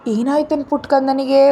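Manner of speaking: put-on gently comforting the child, asking what ಕಂದನಿಗೆ is upset about; mildly soothing grandma voice; soothing grandmother. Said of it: "ಅವನ ಸಮಾಧಾನ ಮಾಡ್ತಾ ಹೇಳಿದ್ರು".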